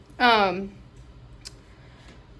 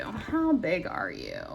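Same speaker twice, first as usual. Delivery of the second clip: slower, softer, drawn-out question; slow repeated question; 3 semitones lower, 6 dB quieter, slower than usual. Real, not acted. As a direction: stretch each word, gently puzzling.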